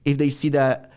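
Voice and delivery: English with a Brazilian Portuguese accent; put-on Brazilian-accented English. Shown as a demonstration. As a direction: pose as a Brazilian with limited English. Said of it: "the, the Brazilian accent".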